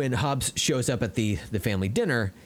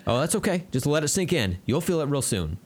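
mock Hobbs; 6 semitones higher than usual. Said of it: "And then Hobbs is like".

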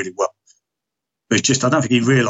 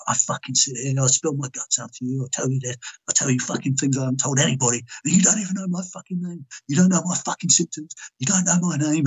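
retold angry rant; 3 semitones higher than usual. Patient telling therapist off over his name, angry. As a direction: imitate an aggrieved outburst without raising the volume. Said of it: "I was really fucking pissed".

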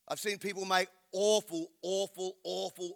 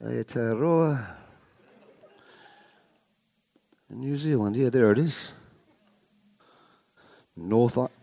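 low, amused deity voice; a giant god chuckling at the sheep; 4 semitones lower, 5 dB louder than usual. Pretend. God voice continues, looking at New Zealand.

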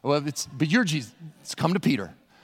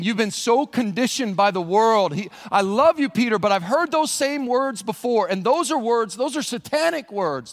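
earnest correction; 5 semitones higher, 4 dB louder than usual. Acted. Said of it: "He's saying".

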